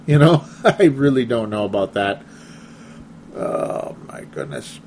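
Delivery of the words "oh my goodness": exasperated sigh. Real, not acted. Exasperated aside.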